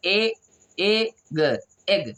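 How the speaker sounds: "एग" built from e, pause, g; teacher's step-by-step "एग"; sounding out. Shown as a demonstration. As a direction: separate the sounds of "एग", then join them. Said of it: "ए का उच्चारण क्या होता है?".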